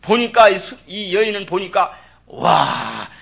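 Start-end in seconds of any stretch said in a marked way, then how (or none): 2.3-3.1 slow building to a shouted cry of discovery; ecstatic realisation. Retold or imitated. Mother recognising her saviour, building to a shout. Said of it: "푹 빠져들어갔어요".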